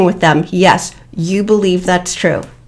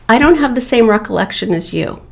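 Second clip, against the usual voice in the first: neutral, no anger; 2 semitones higher, 3 dB quieter, faster than usual. Shown as a demonstration. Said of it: "No emotion, no anger, no accusation".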